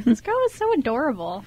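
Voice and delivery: a light laugh under the words; amused little laugh, half to himself; chuckling to himself. Acted. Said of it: "Avery laughed to himself".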